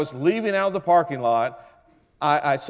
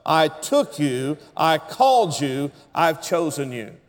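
with gusto. Shown as a demonstration. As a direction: give it full congregational gusto. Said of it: "A lot of gusto".

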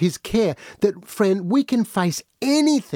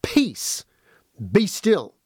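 raised, ringing command to the sea; commanding Jesus; much slower than usual. Acted. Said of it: "he said to the sea".

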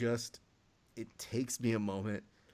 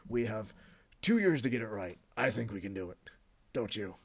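Vince McMahon. Acted. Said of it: "my favorite Vince".

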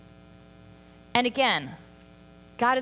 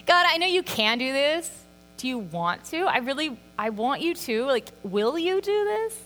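a higher, earnest plea to God; pleading prayer; 5 semitones higher than usual. Retold or imitated. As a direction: beg God gently, wanting him to act. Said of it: "I say that to God all the time when I pray".

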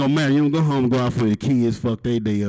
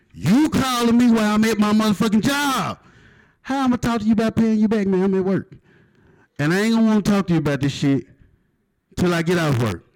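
mock angry rant; 8 semitones higher than usual. Comedian yelling at a bill collector, exasperated.

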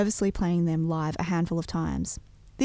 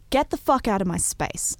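mild mock yell; 3 semitones higher than usual. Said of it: "I yelled".

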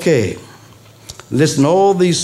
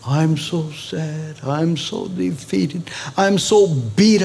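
slow, soft whiny moping, hammed-up; mock self-pity; 4 dB quieter, slower than usual. Pastor mocking Christians who broadcast their defeat, in a mock mopey whine. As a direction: lay on the poor-me act, drawn out and hushed. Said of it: "we want everybody to know".

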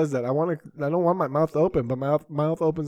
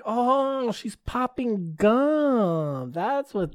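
higher, slow, wondering; delighted surprise; 9 semitones higher, much slower than usual. Real, not acted. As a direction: savor the discovery. Mom delighted by doll.

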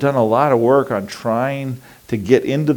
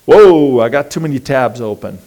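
mock overwhelmed exclaim; 6 dB louder than usual. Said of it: "we're like".

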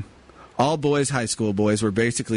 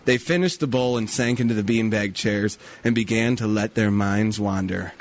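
story narration. A narrator's reading. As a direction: read it like a mock after-school special.

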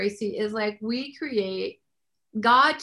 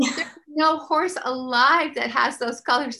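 retold arguing; 3 semitones higher, 5 dB louder than usual. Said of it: "I'm just arguing".

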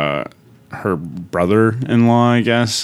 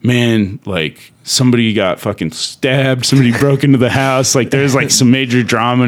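agitated retelling; 5 semitones higher than usual. Retold or imitated. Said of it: "he goes".

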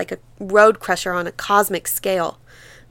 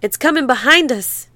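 shuddering; 5 semitones higher than usual. Acted. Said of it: "Janey shuddered".

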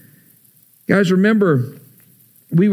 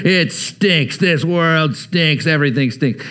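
put-on grumbling old man. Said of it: "And you kinda hear".

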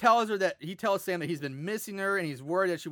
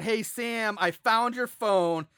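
mock yell; 4 semitones higher, 3 dB louder, much slower than usual. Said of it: "she yells out".

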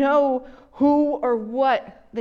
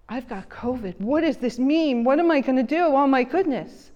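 mild panic. Retold or imitated. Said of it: "She's crying".

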